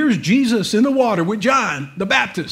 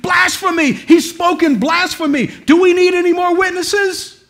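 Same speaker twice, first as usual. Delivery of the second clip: high, loud outraged cry of blasphemy; retold scream; 9 semitones higher, 5 dB louder than usual. High priest tearing his robe, screaming in outrage. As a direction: shout it like a scandalised high priest. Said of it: "he screamed".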